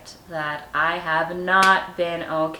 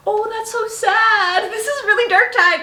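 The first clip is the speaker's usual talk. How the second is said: mock sad; 7 dB louder than usual. Mock pity at own diary.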